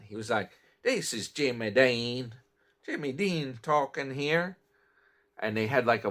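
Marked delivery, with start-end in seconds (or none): 0.8-4.6 a light, slightly odd imitation of a movie character's accent; mildly imitating a strange voice from an old film; weird accent. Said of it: "a weird accent".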